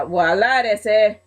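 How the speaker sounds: badly faked Latino wrestler accent; Eddie, horrible accent. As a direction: attempt a Latino accent, clumsily. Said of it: "very sorry about that horrible accent".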